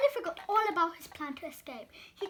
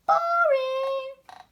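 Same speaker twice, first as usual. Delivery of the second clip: bored dismissal; 8 semitones higher, 11 dB louder than usual. A narrator's reading. Donut rejects idea.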